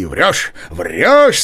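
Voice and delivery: interrupting retort. Acted. Nozdryov cuts off Chichikov, loud scoffing. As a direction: cut him off, calling the lie. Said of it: "сказал Ноздрёв, не давши окончить".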